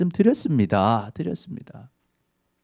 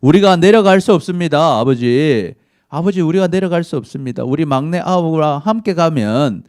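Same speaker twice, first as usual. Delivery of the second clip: louder, higher insistent refusal; raised protest; 3 semitones higher, 5 dB louder than usual. Acted. Judah loudly refusing his father, raised insistent voice.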